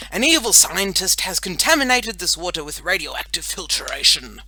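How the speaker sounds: loud, grand warning; brave superhero voice. A narrator's reading. Boy superhero warns girl about the water, bravely. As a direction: announce the danger like a hero. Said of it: "in his brave superhero voice".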